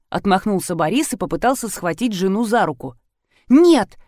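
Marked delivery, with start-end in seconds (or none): 3.5-4.0 high, loud scream of Нет; desperate scream. A narrator's reading. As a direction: shriek the refusal. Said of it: "закричала та".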